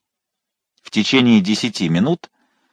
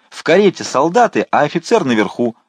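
higher, louder alarm to the crowd; shout; 5 semitones higher, 3 dB louder than usual. A narrator's reading. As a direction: rouse the crowd. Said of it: "закричал он". (кричит толпе)

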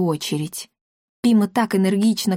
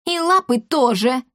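ехидно; 4 semitones higher than usual. A narrator's reading. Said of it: "ехидно добавила его жена".

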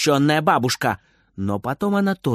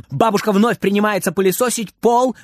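ordinary delivery

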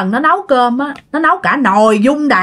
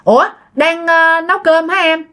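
higher-pitched, innocently casual questions; carefree, unsuspecting; 7 semitones higher than usual. Acted. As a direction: ask lightly as the unsuspecting son. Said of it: "theo kiểu vô tư". (giọng cao, hỏi kiểu vô tư)

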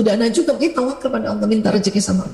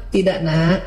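firm but gentle; 4 semitones lower, slower than usual. Shown as a demonstration. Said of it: "Itu tegas tapi mukanya lembut".

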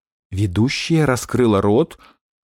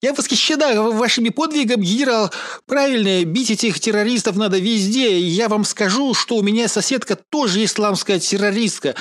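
much higher gushing lady voice; gushing tv viewer; 8 semitones higher than usual. Acted. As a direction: rattle off eager thanks, swallowing endings. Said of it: "захлёбываясь и проглатывая окончание". (восторженная телезрительница, высоким голосом)

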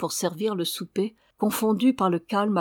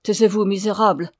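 plus fort, un ordre furieux; coupe-lui la parole avec colère; cri de colère; 5 dB louder than usual. Acted. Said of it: "cria la señora". (cri furieux)

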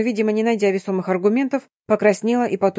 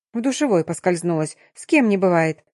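ordinary delivery

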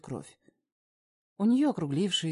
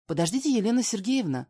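raised, higher call after her; surprised shout after someone leaving; 6 semitones higher, 6 dB louder than usual. Acted. Calling after fleeing mother-in-law.

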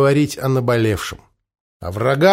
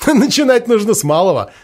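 chuckling; 7 semitones higher, 3 dB louder than usual. A narrator's reading. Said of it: "хохотнул Голонит".

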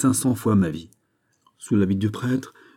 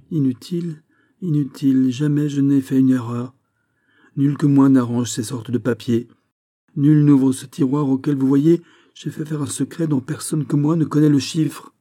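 higher, emphatic protest; insist, voice raised in pitch; agitated insistence; 6 semitones higher, 4 dB louder than usual. Acted. Fouquet protests to Aramis about his secret drawer, agitated.

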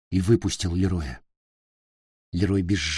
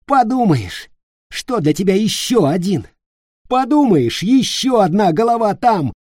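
high, loud denouncing rant; furious tirade; 9 semitones higher, 6 dB louder than usual. Acted. Nick with knife at throat denouncing Peter, loud. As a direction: tear into him.

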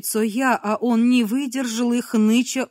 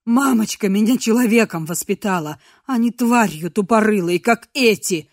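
angry outburst; 6 dB louder than usual. Acted. Abakumov defends his mother.

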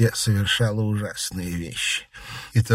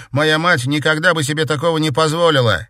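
indignant; 9 semitones higher, 7 dB louder than usual. Acted. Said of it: "возмутился Игорь".

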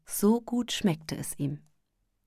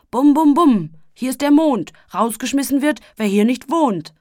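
booming, much louder and higher; shouting; 6 semitones higher, 10 dB louder than usual. A narrator's reading. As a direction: bellow it like a drum call. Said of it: "schrie der Sandmann".

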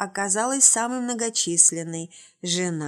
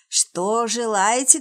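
put-on slow, creaky old man voice; 2 semitones higher, 5 dB louder, slower than usual. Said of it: "тотчас проскрипел старик".

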